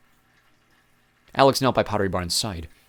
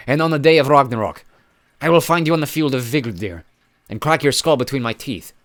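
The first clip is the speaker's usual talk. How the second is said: loud scornful giant voice; sneering giant; 6 semitones higher, 8 dB louder than usual. Acted. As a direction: spit contempt like a dying giant.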